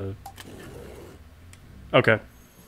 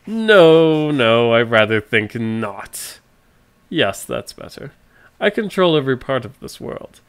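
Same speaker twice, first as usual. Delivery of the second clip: villain voice. Acted. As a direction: gloat like a theatrical baddie. Villain monologue continues.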